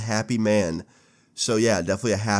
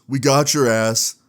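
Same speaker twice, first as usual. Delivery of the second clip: gloating; 3 semitones higher, 5 dB louder, slower than usual. Retold or imitated. Dad gloating over prank.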